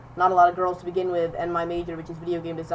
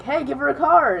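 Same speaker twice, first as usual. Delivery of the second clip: higher, louder teacher's order; retold insistent call; 7 semitones higher, 7 dB louder than usual. Teacher repeating the order to a kid, insistent call. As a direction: call out to a student who isn't listening.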